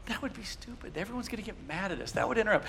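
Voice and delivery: cautious friend. Retold or imitated. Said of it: "there's the cautious one".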